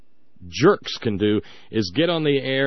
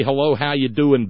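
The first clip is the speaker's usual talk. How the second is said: slow Southern greeting; 4 dB louder than usual. Retold or imitated. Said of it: "it takes fifteen minutes for them".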